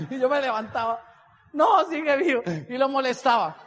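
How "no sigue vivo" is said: mock exclamation. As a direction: blurt it out loudly for laughs. Mock relief at roommate still alive. (exclamación fuerte y cómica)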